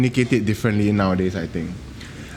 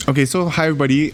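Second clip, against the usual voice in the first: talking through a mouthful of food; chewing while talking; mouth full; 5 semitones higher, much faster than usual. Shown as a demonstration. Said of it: "let you hear me talk with my mouth full".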